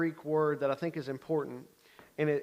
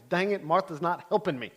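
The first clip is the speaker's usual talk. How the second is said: moody complaint; 2 semitones higher than usual. Retold or imitated. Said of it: "it says moodily".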